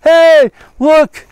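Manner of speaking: hammed-up salesman. Preacher mocking Jeroboam as a hammy pitchman. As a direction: sell the altar like a huckster.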